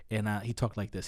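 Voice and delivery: imitating dad's thick African accent. Son shows how his dad talked, in an African accent. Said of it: "my dad has a thick African accent".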